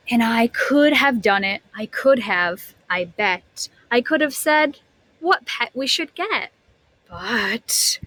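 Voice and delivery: lively storybook reading voice; animated read-aloud for a class; reading to children. A narrator's reading. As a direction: read it like a picture book to kids.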